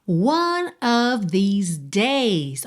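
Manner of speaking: slow whisper with no voice. Shown as a demonstration. Teacher whispering the answer to students. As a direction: breathe the phrase slowly. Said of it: "Como é que você diria".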